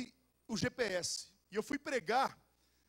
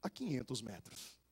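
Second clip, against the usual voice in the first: lower, slow robotic navigation voice; GPS voice; 8 semitones lower, slower than usual. Retold or imitated. Preacher imitating his new GPS, slow robotic voice. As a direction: read it like a car navigator. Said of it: "o G P S faz assim".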